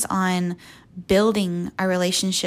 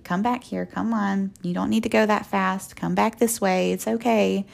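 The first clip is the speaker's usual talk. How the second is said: gentle coaxing. Retold or imitated. God calling someone back like a two-year-old, gentle coaxing. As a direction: coax as with a toddler. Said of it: "Like you would with a two-year-old".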